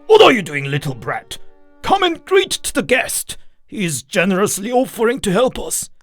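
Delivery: high-pitched scolding father; angry bark. A narrator's reading. Drunken father orders son to greet the guest, barked. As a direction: order the boy about sharply. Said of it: "his father barked at the boy".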